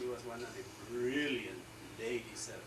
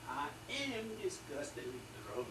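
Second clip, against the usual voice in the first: Churchill's retort; 5 semitones higher, 3 dB louder, slower than usual. Retold or imitated. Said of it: "he goes".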